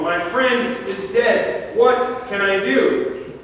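slow, panicked plea to the phone; a mild acted gasp of alarm; panicked hunter on the phone. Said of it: "he gasps to the woman".

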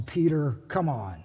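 low, weary disbelief rising to a sharp Really; exasperated Jesus. Retold or imitated. Jesus scolds Peter after the ear, exasperated disbelief. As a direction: sigh at Peter, then ask in disbelief. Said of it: "probably that tone of voice too".

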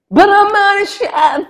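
high laughing squeal of protest; giggly high disbelief. Retold or imitated. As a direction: laugh it out, incredulous. Protesting she's not a chef.

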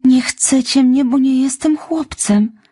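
anguished cry. A narrator's reading. Orphan girl pleading to Marilla and Matthew, anguished and slow. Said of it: "krzyknęła".

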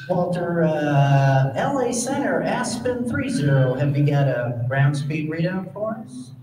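lightly played innocent small-plane pilot; innocent Cessna voice. Walter baiting Center in an innocent Cessna voice. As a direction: ask sweetly, playing dumb. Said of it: "In his very best innocent Cessna voice".

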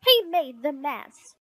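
high, loud tattling; indignant high-pitched child; little sister crying out. Acted. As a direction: accuse your brother loudly. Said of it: "cried Sister".

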